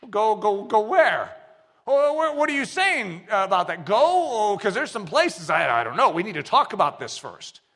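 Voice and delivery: flustered, stalling reply to God; mock-nervous dodging; reluctant panic. Preacher acts reluctant believer.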